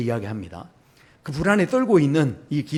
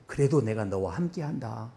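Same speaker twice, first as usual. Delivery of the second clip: tender promise; 5 semitones lower, 6 dB quieter than usual. Acted. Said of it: "이렇게 말씀하시는".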